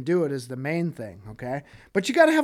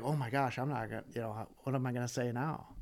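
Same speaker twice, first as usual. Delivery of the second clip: worried woman; 6 semitones lower, 12 dB quieter, faster than usual. Retold or imitated. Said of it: "the woman's probably now like".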